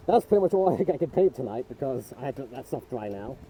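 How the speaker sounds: muffled through a respirator mask; talking through a respirator. Real, not acted. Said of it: "I have respirator voice".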